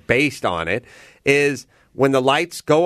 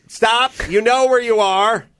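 high-pitched mock shout from a coach; acted coach interruption; 10 semitones higher, 3 dB louder than usual. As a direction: cut in sharply as the improv teacher, pitched well up. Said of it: "And someone will go".

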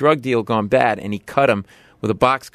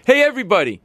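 put-on drunk calling out; 11 semitones higher, faster than usual. Drunk man calling out to the whole bar. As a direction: call the room to attention. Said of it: "he goes".

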